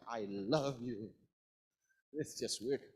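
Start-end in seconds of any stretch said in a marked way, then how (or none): 0.1-1.1 slow, weighted "I love you"; awkwardly over-emphatic "I love you"; misplaced chopping emphasis. Shown as a demonstration. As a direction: lean hard and long on "love" in "I love you". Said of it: "You cannot say, like".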